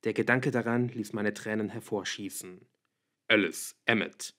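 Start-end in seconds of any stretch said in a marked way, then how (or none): 3.3-4.3 two names given as short orders, each falling; command. A narrator's reading. Edward sends Alice and Emmett off, commanding. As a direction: give a restrained command, name by name. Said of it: "Edwards Stimme gab das Kommando".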